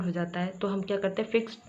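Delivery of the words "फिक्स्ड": फिक्स्ड as one syllable, no E before D; silent E. Shown as a demonstration. Teacher shows learners the rule, demonstrating silent E. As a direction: drop the E in फिक्स्ड. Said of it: "ई को हटा के डी".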